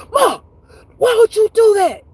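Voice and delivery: high, loud startled plea; shocked child. Retold or imitated. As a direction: cry out to mom in shock. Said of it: "I was like".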